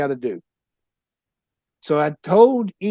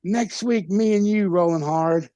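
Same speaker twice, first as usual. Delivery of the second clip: higher, pushing the rematch; retold eager challenge; 4 semitones higher than usual. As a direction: sell the rematch like a promo. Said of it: "And then I was like".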